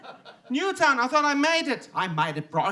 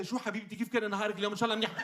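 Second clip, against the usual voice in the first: Lebanese Arabic; 7 dB quieter, much faster than usual. Retold or imitated. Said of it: "If I walk up to a girl and say".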